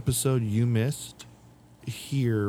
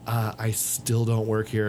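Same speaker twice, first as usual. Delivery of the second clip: deadpan annoyed; slower than usual. Retold or imitated. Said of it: "I literally use that line".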